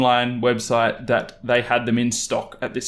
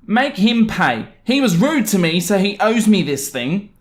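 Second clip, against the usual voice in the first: entitled mum; 7 semitones higher than usual. Acted. Entitled mum telling the employee to make the customer pay, high and petulant. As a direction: insist like a spoiled grown-up.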